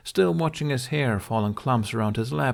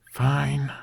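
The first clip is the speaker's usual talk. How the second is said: grumbling; 5 semitones higher than usual. Acted. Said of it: "he grumbled".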